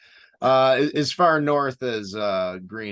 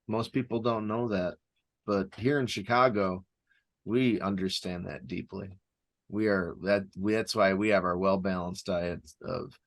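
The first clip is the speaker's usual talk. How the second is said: deadpan Chicago local voice; Chicago accent; 2 semitones lower than usual. Pretend. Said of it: "It's almost Wisconsin sounding".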